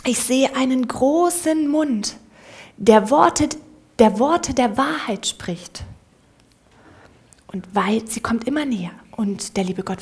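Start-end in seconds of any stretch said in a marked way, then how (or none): 0.1-5.8 awed praise. Acted. The mouse praises God's big mouth, slow and awed. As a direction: marvel slowly at what you see.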